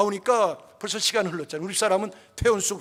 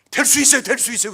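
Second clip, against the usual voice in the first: put-on eager child's promise; 4 semitones higher, 7 dB louder than usual. Child promising to become pastor.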